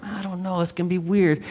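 soft, hesitant imitation of himself balking; reluctant reply. Preacher replaying his excuse to God's prompting, reluctant. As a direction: mumble a half-hearted excuse.

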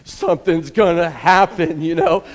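bursting with doggy glee; excited dog. Pretend. Preacher voicing a dog hoping for dropped food, eager. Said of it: "and dog's like".

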